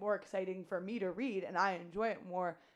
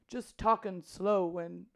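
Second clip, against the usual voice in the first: put-on slow old man voice; 5 dB louder, much slower than usual. Shown as a demonstration. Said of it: "that's not it".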